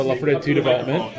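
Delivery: ordinary talk, nothing marked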